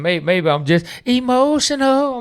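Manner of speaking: high, slow sing-song "emotional"; mock-tearful high "emotional". Shown as a demonstration. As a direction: stretch "emotional" up high, hamming it.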